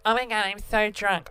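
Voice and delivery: put-on lightly slurred drunken whine; mock-drunk announcement, words run together; annoying drunk. Imitating their drunk self whining when wasted, annoying drunk. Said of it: "I say that every six seconds when I get wasted".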